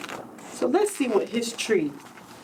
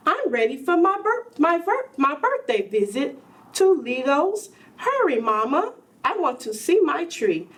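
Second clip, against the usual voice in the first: put-on lightly raised eager child voice; a hint of an impatient boy, a bit higher; eager little boy; 3 semitones higher than usual.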